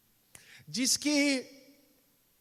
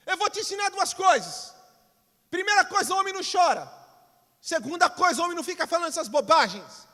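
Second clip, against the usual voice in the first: higher, louder, fast harsh scolding; stressed father scolding; 6 semitones higher, 5 dB louder than usual. Acted. Stressed father scolding his little son for saying I love you, angry and loud. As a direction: tear into the boy for saying he loves you. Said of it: "E o pai estressado olha pra ele e fala".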